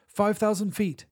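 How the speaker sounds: loud urgent call; shouting. Acted. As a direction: shout out the altitude. Calling altitude while falling.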